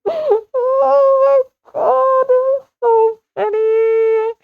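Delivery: high, slow, laughing through the words; laughing excitedly. Real, not acted. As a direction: gasp it out mid-laugh, delighted. Laughing recalling funny video.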